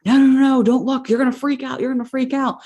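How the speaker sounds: high, urgent retold warning; panicked plea. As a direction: blurt it out in mock panic.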